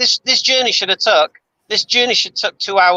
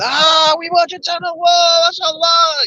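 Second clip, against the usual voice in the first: imitating excited fans; 11 semitones higher, slower than usual. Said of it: "when I go back".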